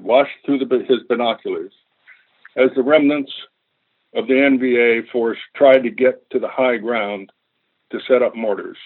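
story narration. Acted. Reads war story from book.

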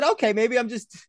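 high, giggling excuse to himself; laughing self-talk. Retold or imitated. Telling himself it's nothing, laughing. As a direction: laugh it off while making excuses. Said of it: "But I just said".

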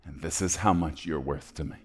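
soft, understated sincerity; solemn tenderness. Acted. Old man tells the boy his worth, soft and solemn. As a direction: quietly confide the cost.

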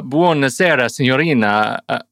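a mild mock Italian accent; lightly hammed-up Nicolas Cage as an Italian; bad Italian accent. Shown as a demonstration. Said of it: "a Nicolas Cage in the Captain Corelli's Mandolino".

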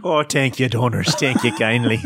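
mock Irish brogue, lightly amused; playful Irish lilt. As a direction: thank them in put-on Irish. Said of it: "with a nice Irish brogue".

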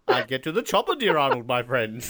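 lightly voiced genteel English gent, falling away; a mild, courteous reply to an action hero; Roger Moore. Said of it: "Arnold Schwarzenegger and Roger Moore".

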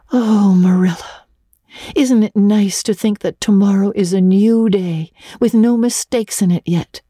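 put-on high girlish voice, tearful and fluttering with embarrassment; young Anne voice. Anne begging Marilla not to face Missus Allen, high and teary. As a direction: play the mortified little orphan girl, stumbling over words.

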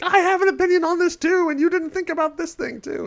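high, whiny mock complaint; squeaky listener whine; whiny fan voice. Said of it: "screaming at their phones".

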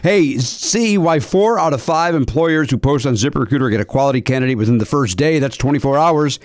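upbeat sponsor read to listeners. Acted. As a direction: sell it like a friendly radio spot. Host reads sponsor ad.

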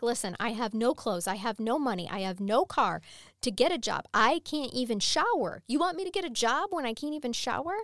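mildly heated retelling of an outburst; retold snapping. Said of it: "She snaps".

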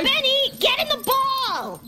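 high urgent yell; urgent call. Acted. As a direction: hurry him up, calling out. Urging gerbil into ball.

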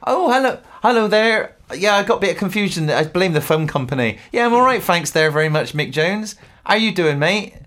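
mock a singer. A singer chatting with another musician on the phone, chirpy. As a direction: greet him all chummy on the phone. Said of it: "Are you gonna be a singer?".

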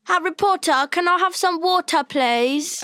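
high-pitched, exaggerated British impression; mock British accent. Student mimicking college friends trying her accent, high mock British. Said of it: "they all try to do my accent".

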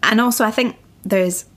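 words broken by a small burp. Real, not acted. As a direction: talk through a little burp. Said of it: "sorry, I just did a wee burp".

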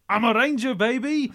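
high, loud crowing impression; mock whoop. Answering "Are you Murdoch?", mock whooping reply. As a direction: whoop it out like a crazed film hero.

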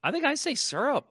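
"syrup" with a first vowel like "sir"; syrup as SUR-up. Real, not acted. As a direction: say "syrup" as if spelled S-U-R. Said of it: "So it's not S U R".

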